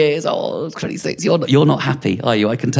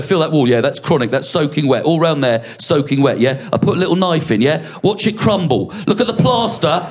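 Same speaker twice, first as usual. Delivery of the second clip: cocky builder voice; 5 semitones higher than usual. Retold or imitated. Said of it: "He's going".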